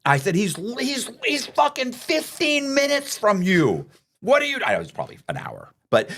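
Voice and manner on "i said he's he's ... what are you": high, slow, exasperated yelling; mock furious outburst. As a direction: let it rip in disbelief at the friend.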